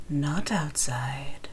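low, slow whisper. Acted. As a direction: hiss it out very slowly. Player whispering kid's warning.

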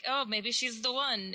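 slow, lightly put-on French accent for Lumiere; a hint of French accent on a dreamy line; mock French accent, imitating the trailer. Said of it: "in a French accent".

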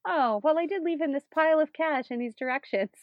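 high, loud flustered denial; flustered Patrick. Retold or imitated. The groom defending himself, a high loud flustered rush. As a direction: stammer it out, caught off guard.

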